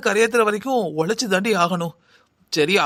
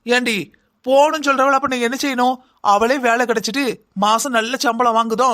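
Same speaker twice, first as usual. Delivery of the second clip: heated scolding; 3 semitones higher than usual. Acted. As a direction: rant at the daughter, hurt and angry. Mother angrily argues with daughter. (கோபமாகத் திட்டுதல்)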